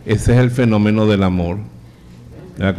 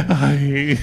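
disgusted yelp; 3 semitones higher than usual. Acted. Priest smells the stinking feet.

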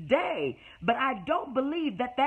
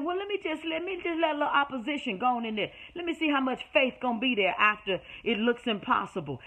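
voice of God; faster than usual. Acted. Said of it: "God said".

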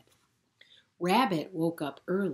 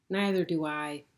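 sighing; 5 dB louder than usual. Acted. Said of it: "Rabbit sighed".

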